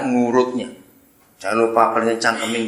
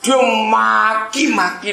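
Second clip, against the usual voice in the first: laughing; 8 semitones higher, slower than usual. Real, not acted. Preacher laughs telling the congregation the twist. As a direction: crack up at the punchline.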